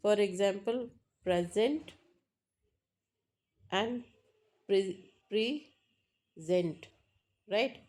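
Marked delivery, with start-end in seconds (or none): 1.2-1.9 PRESent, first syllable stressed; stress on PRE. Shown as a demonstration. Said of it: "and one is present". 4.7-6.9 preSENT, split slowly into syllables; stress on SENT. Shown as a demonstration. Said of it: "stress mark is on sent".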